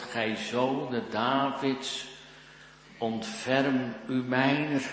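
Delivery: slow, deliberate quoted call for mercy; measured quoted plea. Retold or imitated. Preacher quotes those who called on the Son of David, measured plea. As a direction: draw out the plea without shouting. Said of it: "dat er geroepen wordt".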